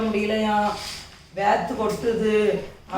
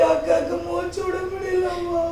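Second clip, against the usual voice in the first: acted crying; 5 semitones higher, 3 dB quieter than usual. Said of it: "அழாதக்கா, அழாத".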